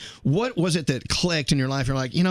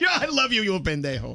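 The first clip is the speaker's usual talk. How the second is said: put-on drunk, affectionate, teasing talk, pitched up; 6 semitones higher than usual. Joking how the word gets used affectionately: imitating a drunk person. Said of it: "unless you're, like, drunk".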